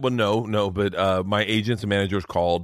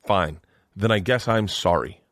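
grudging apology. Acted. Husband plays his wife apologizing to him, grudging. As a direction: imitate a wife's reluctant, insincere sorry. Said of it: "I'll show you how she apologizes".

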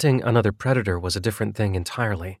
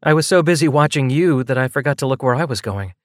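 lightly voiced woman, higher pitch; a higher character voice owning up to clumsiness; sheepish, higher-pitched admission; female character, self-mocking; 5 semitones higher than usual.

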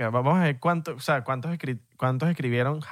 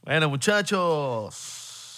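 showman sign-off; much slower than usual. Pretend.

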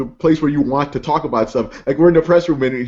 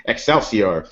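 lightly voiced comics showman, pitched lower; Stan Lee; 6 semitones lower, slower than usual. Friends wish for a voice pack, lightly done Stan Lee. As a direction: proclaim it as a low catchphrase. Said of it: "I want a Stan Lee pack".

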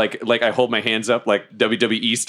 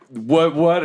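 grandstanding; 5 semitones higher than usual. Acted. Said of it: "I start grandstanding again".

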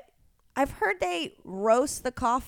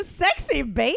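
vocal fry; 5 semitones higher than usual. Shown as a demonstration. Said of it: "Like a vocal fry".

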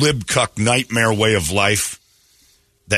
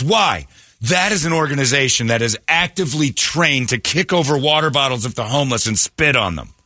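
higher-pitched mock outrage; mimicked indignant rant; 4 semitones higher than usual. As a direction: imitate her arguing back, pitch raised. Mimics wife ranting about police.

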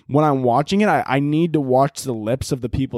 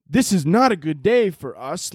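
mock monotone. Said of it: "it's just so monotone".

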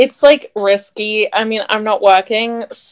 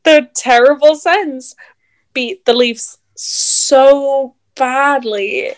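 deadpan meme voice; 2 semitones higher, much slower than usual. Acted. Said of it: "mean to do the meme voice".

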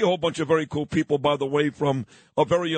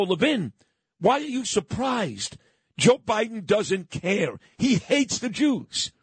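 heated retort; 4 semitones higher than usual. Retold or imitated. Retold heated reply to Levin.

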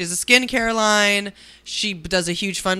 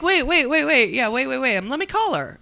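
imitating Jason; 7 semitones higher than usual. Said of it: "He's like".

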